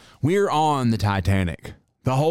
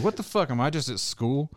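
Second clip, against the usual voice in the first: mock confused stranger; 4 semitones higher, 4 dB quieter than usual. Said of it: "and they're like".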